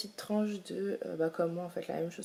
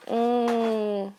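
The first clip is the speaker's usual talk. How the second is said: ordinary talk, nothing marked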